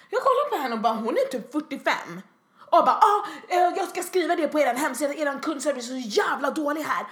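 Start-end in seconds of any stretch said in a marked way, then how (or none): 3.0-7.1 higher, louder complaining blast; mock ranting customer. Imitating the customer threatening to complain online, hammed-up rant. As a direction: rant about the service like she's threatening a review.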